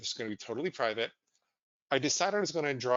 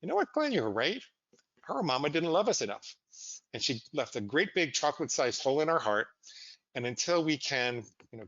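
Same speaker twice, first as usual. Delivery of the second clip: voice of justification. Retold or imitated. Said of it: "it went something like this".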